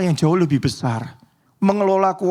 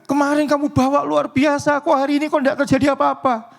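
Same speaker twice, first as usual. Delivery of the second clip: higher, puzzled questioning; baffled leader; 8 semitones higher than usual. Retold or imitated. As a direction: ask it like a confused mission leader. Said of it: "pemimpin ... kaget gitu".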